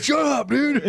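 hammed-up high comeback; mock annoyed player. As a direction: snap back at the crowd through laughter. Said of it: "you're like".

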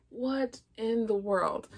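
slow whispered disbelief; incredulous whisper. Real, not acted. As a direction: hush it out in disbelief.

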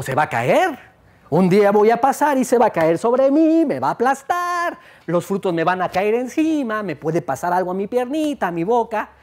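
alarmed, rising high on me va a aplastar; worried. Acted. Woman fearing the leaning tree will fall on her, alarmed. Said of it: "pensó".

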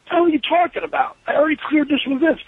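mock-indignant pushback; indignant protest. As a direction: protest as if replaying an argument. Acted argument with John.

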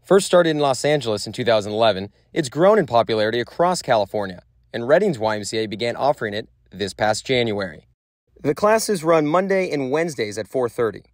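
measured reporter narration; news voiceover. Acted. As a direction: read it like a TV news package.

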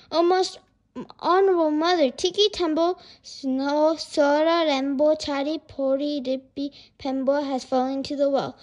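urgent report. Acted. Boy tells his mother his brother fell, urgent.

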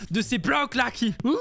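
exasperated rant breaking into a yell; going crazy. Real, not acted. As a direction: lose it and end on a wild shout. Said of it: "en train de devenir complètement fou".

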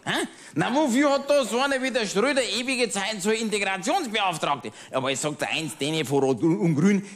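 a lightly voiced pub-table know-it-all, chatty and smug; grumbling Bavarian regular. Pub regular ranting to his old friend, smug grumbling. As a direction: play the pub-table ranter holding forth to his friend. Cabaret character monologue.

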